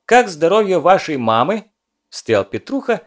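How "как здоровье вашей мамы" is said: pitying. A narrator's reading. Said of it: "давя на потаённые жалостные струнки".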